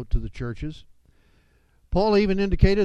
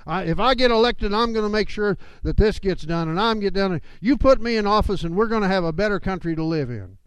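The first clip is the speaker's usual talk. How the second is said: mock campaign promise; 5 semitones higher, 6 dB louder than usual. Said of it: "many politicians out there who say".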